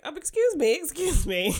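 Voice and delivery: high, loud "excuse me"; acted interruption. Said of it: "then she's like".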